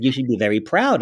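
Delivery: imitated French accent; lightly French-accented retold praise. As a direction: quote a French dad in his accent. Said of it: "with the big French accent".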